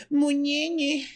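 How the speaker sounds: high, soft eerie whisper-voice; creepy ear whisper. Retold or imitated. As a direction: breathe it into someone's ear, creepy. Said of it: "te dice". (susurro espeluznante al oído)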